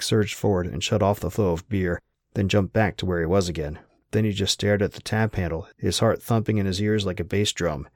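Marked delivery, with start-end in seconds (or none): none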